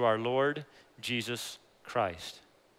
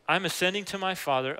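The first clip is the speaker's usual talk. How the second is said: higher, personal, warmly told; family-warm retelling; 5 semitones higher than usual. Acted. Jesus telling Mary of going to his Father, warm and personal. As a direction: say it like telling family good news. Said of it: "this is like a family moment".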